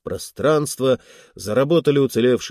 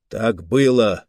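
sharp; 3 dB louder than usual. Acted. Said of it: "резко сказал Голье".

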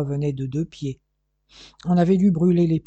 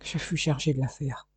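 faint, softer dying voice; barely audible; 6 dB quieter than usual. Acted. Dying detective forcing out his story, barely audible. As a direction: push the words out with the last strength. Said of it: "d'une voix à peine perceptible".

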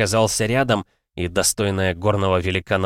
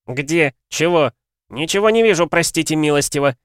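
flustered denial; 8 semitones higher, 5 dB louder than usual. A narrator's reading. Guest feigns ignorance, flustered.

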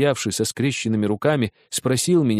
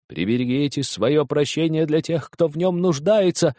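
haughty; 4 semitones higher than usual. Acted. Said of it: "сказал он высокомерно".

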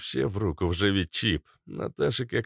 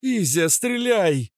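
much higher urgent cry; shouted; 12 semitones higher, 5 dB louder, slower than usual. Acted. Kobra yells at Izya to shoot. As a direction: yell the order. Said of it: "крикнула Кобра".

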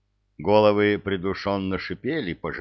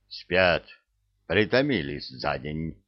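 sniffling; 3 semitones lower than usual. Acted. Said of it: "шмыгнула носом центральная".

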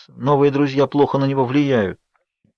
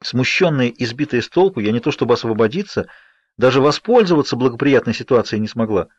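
usual speaking voice

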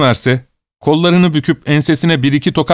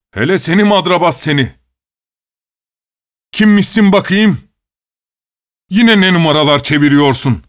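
raised, higher angry scolding; guard yelling at the sly prisoner, raised voice; shouting guard; 4 semitones higher than usual. A narrator's reading. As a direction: yell the scolding in disbelief. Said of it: "bağırmayı bırak artık".

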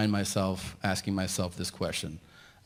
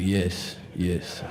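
Arab man; 3 semitones lower, slower than usual. Retold or imitated. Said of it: "this one Arab guy".

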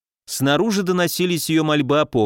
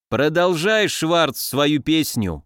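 ordinary delivery

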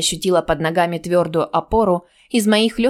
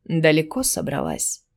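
low, quiet threat; a predator's low question; low menacing voice; 3 semitones lower, 3 dB quieter than usual. Acted. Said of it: "Низкий голос раздался". (низкий угрожающий голос)

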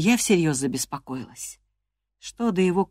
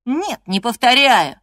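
defiant denial; 8 semitones higher, 9 dB louder than usual. Acted. Linton defiant.

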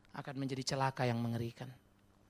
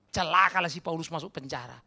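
mock condemnation; 7 dB louder than usual. Sarcastic mock condemnation of apostles.

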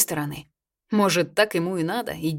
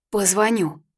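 squeaked; 4 semitones higher, 3 dB louder, slower than usual. A narrator's reading. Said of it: "пискнула Марьяна".

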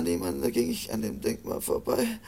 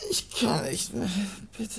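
crying. Acted. Wounded man gives up.

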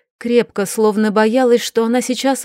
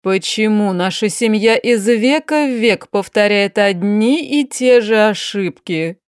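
a lightly voiced tired aristocratic aunt; weary duchess. Duchess to niece Sofi, lightly voiced weary despair. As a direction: speak as the exhausted duchess despairing over her niece. Duchess laments family mistakes.

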